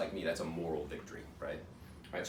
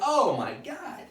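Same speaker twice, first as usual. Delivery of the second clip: high, drawn-out mock wail; agonised wail; 12 semitones higher, 4 dB louder, much slower than usual. Patient enduring biopsy, agonised wail. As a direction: draw it out in comic agony. Patient wails in pain again.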